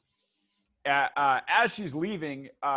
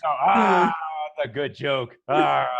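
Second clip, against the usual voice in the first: jolly crewman; 7 dB louder, slower than usual. Acted. Skeletons enjoying their own joke.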